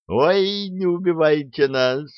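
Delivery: high-pitched frightened wail; panicked squeal. A narrator's reading. Two soldiers beg as the pistol comes out, squealing. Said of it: "в голос заверещали Зюзик и Рябушкин".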